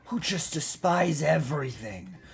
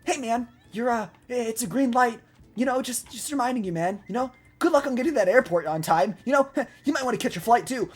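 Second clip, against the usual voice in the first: higher, easygoing nudge to a stranger; gentle reminder; 5 semitones higher than usual. Acted. Driver lightly nudging a distracted man at a green light, gentle reminder. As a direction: politely remind them, no edge, pitched up. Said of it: "give 'em a little love tap".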